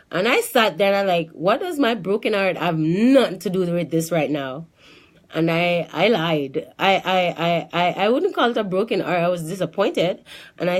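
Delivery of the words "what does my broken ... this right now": indignant questioning with a swooping pitch; retold disbelief; incredulous. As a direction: act out baffled objection. Baffled by doctor's heartbreak question.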